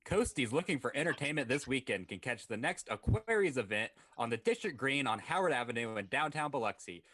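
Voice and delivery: upbeat radio ad read. Acted. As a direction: read it like a sponsor spot. Reads a sponsor ad.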